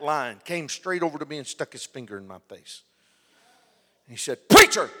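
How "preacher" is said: retold shouted summons, pitched up; very loud. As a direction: bellow it like the man accosting you. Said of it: "very loudly".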